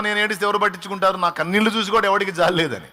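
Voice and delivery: self-pitying complaint. Retold or imitated. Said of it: "నువ్వు అనుకుంటావు".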